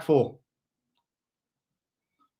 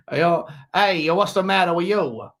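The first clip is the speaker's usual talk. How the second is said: put-on joking Dutch accent sounding like Al Capone; botched Dutch accent played for laughs; attempted Dutch accent; 2 semitones higher, slower than usual. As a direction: ham up a bad Dutch accent. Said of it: "work on my Dutch accent".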